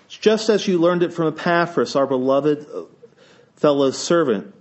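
scripture reading. Acted. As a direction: read the psalm with solemn lift.

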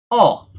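"all" set apart and said firmly; stress on all. Shown as a demonstration. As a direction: land emphatically on "all" after a pause. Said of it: "gives an emphasis on the word".

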